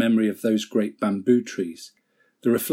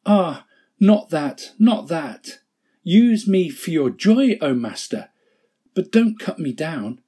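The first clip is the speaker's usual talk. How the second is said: desperate pleading; 7 semitones higher, 4 dB louder than usual. Acted. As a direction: plead for your life. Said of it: "A trembling of great horror shook Bamboo".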